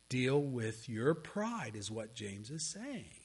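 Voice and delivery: slow, whispered urging; hushed, slow appeal; whispered exhortation. Real, not acted. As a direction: lean in and whisper it. Closing solemn point.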